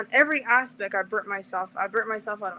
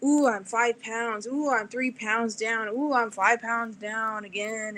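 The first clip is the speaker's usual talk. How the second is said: mock excitement; slower than usual. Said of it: "It's like".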